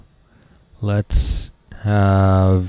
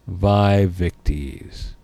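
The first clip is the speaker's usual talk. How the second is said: gloating chieftain; 2 semitones lower, 3 dB quieter, much slower than usual. Retold or imitated. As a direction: savour each word like a victor. Gaul chieftain laughing at Romans.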